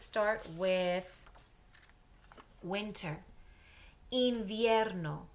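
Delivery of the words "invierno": "Invierno" slow and loud, "in-VYER-no"; teacher stretches "Invierno" for the class; model word. Shown as a demonstration. Teacher modelling "Invierno" slowly and loudly for students.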